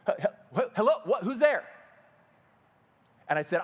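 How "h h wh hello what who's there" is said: small scared voice. Retold or imitated. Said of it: "this little voice come".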